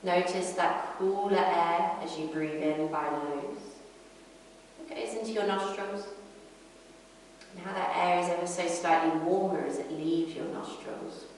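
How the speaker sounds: calm yoga teacher, unhurried with long pauses; guided breathing meditation. Acted. Yoga teacher guiding a class inward to the breath, calm meditation voice. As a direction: lead them gently through the breath, pausing between phrases.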